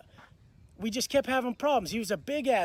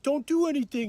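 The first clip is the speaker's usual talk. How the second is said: higher mock-pleading voice; wimpy pleading; 5 semitones higher than usual. Cellmate letting go of the chokehold, wimpy pleading. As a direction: imitate a wimp begging off. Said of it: "He's being a bitch about it".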